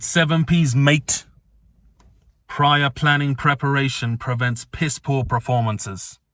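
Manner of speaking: imitating a mentor's British accent; lightly mimicked British accent. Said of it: "That's my British accent".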